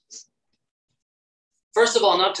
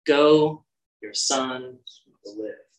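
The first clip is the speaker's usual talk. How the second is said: gentle reassurance; 4 semitones lower, slower than usual. Acted. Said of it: "He is merciful".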